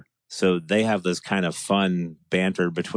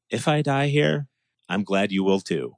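sarcastic cynical voice. Retold or imitated. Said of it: "that sarcastic, cynical voice".

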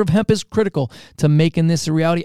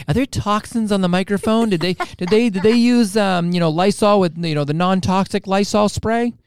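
raised-pitch imitation of a fretful partner; mock freaked-out; 4 semitones higher than usual. Host imitating his co-host fretting about microphone toxins, mock freaked-out. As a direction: play up the germ worry, lightly. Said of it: "Jody is so freaked out".

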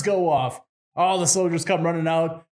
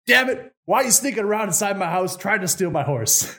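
angry Tsar; 5 semitones higher than usual. Acted. Tsar catching Ivan again.

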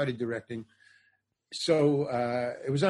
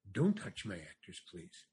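low, hushed director's order; quiet warning; 8 semitones lower, 10 dB quieter than usual. Retold or imitated. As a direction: imitate restrained displeasure.

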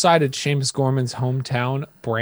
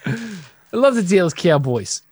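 slow, higher-pitched British impression; mock British accent; 5 semitones higher, slower than usual. Teasing co-host's British fan, exaggerated British accent. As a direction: draw it out in a put-on British accent. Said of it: "That's not how British people talk".

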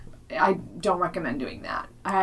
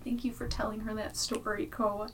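soft gentle voice; 4 semitones higher, 8 dB quieter than usual. Retold or imitated. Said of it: "Matt was like".

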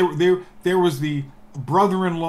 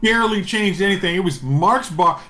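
laughing; 4 semitones higher than usual. Real, not acted.

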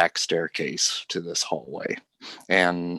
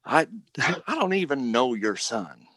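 furious shouting; 10 semitones higher, faster than usual. Acted. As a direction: rage at Hurley, spitting accusations. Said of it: "Cornelia says".

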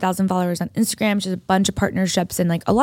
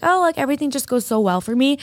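higher-pitched, lightly imitated boast; mock bragging; 5 semitones higher than usual. Host showing how she didn't say it, mock bragging. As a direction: put on a mild humblebrag in a raised pitch. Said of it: "a bragging way".

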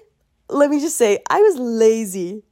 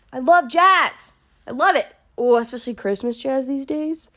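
gushing; 4 semitones higher than usual. Real, not acted. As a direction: swoon over the music. Gushing about jazz.

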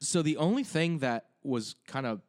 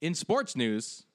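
higher, drawn-out sportscaster intro; news show; 4 semitones higher, much slower than usual. Pretend. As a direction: announce the segment like a newsreader. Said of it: "we're like a news show now?".

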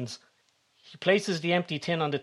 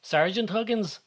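sharp rising disbelief, pitched higher; 7 semitones higher than usual. A narrator's reading. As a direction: she can't believe what she's hearing. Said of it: "asks Beth in disbelief".

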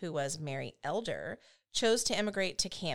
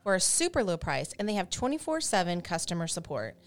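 scripted sponsor read; polished host-read advertisement; podcast ad read; 3 dB louder than usual. Acted. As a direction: read the sponsor copy clearly and evenly. Reads the sponsor ad.

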